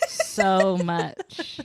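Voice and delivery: talking through laughter; real helpless laughter. Real, not acted. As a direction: squeeze the words out between laughs. Cracks up after being teased.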